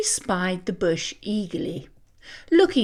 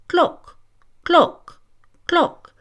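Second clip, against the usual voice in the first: ball sound; 7 semitones higher, slower than usual. Acted. Imitating tennis ball.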